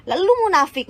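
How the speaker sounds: high, loud cry of contempt; scornful outburst. Real, not acted. Vlogger calling her rival a hypocrite, scornful outburst. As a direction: spit out the accusation.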